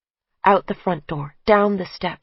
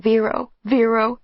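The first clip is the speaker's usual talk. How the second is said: inner scream; 4 semitones higher than usual. Acted. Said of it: "I'm screaming".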